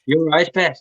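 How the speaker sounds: half-hearted Geordie try; a weak Newcastle accent, barely there. Shown as a demonstration. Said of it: "Newcastle accent".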